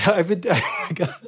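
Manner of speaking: talking through a laugh. Real, not acted. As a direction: laugh while you speak. Laughing while answering.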